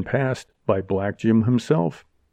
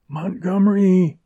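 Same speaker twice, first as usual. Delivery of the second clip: moaned; 9 semitones higher than usual. A narrator's reading. Frightened woman appealing to Montgomery as men arrive, moaning. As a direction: moan his name in distress. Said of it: "she moaned".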